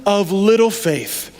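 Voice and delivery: very slow, drawn-out, deliberate reproach; grave questioning. Acted. Jesus looking Peter in the eyes, grave drawn-out questioning.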